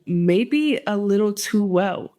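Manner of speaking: "maybe" stressed, "maybe a little too well" said slowly; slow ominous callback. Shown as a demonstration. Vlogger closing the story for viewers, slow and ominous. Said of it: "like I said".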